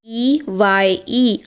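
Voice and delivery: each letter said slowly and apart; slow spelling out. Shown as a demonstration. Teacher spelling a word for students, slow and spaced. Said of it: "teacher spells word letter by letter".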